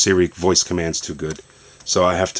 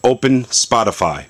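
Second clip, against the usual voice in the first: voice command; 4 semitones higher than usual. Shown as a demonstration. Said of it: "And I like to say".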